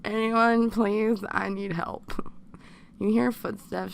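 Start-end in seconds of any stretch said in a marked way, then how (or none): 0.1-1.2 calling louder. Acted. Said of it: "try to make your voice louder". 1.3-2.1 unvoiced whisper of a plea. Trailing off afraid.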